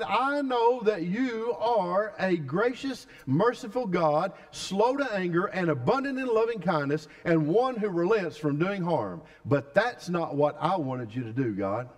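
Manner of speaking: preacher acting Jonah resenting God's mercy; sulking Jonah. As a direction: grumble at God like a resentful prophet. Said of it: "Jonah said".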